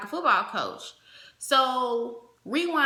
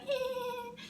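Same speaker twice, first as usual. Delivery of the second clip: dismissive eh; 13 semitones higher, 8 dB quieter than usual. Retold or imitated. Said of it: "I'm sitting up there like".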